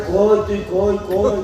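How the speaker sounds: soft, lost calling in the dark; groping blind man. Retold or imitated. Blind husband searching for his wife at night, hushed and lost. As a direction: whisper where are you like a blind man.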